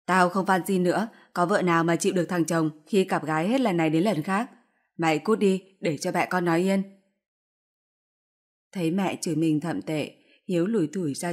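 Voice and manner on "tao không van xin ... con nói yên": louder, furious scolding; mother roaring at her cheating son; angry yelling. Acted. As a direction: drive him out of the house. Mother yells son out of house.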